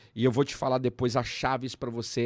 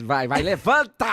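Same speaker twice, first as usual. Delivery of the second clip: higher, louder command to get up; thunderous father; 3 semitones higher, 7 dB louder than usual. Pretend. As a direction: bark it like a stern father. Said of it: "eu sou a voz do Pai. A voz do trovão".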